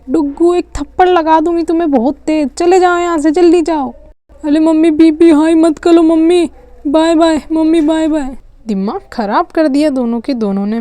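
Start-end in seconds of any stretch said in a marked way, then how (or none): 0.1-3.9 higher, louder furious mother threatening a slap; mother yells at the kids to leave; angry shout. Acted. 4.4-8.4 cheeky loud goodbye. Acted. Kid cheekily calling bye.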